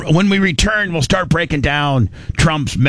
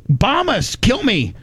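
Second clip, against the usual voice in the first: mock zealot; 6 semitones higher than usual. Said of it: "They're like".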